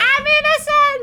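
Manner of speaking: shrill scream at top of range. Voicing a captured character who screams: NPC screaming. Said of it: "Helvi screams".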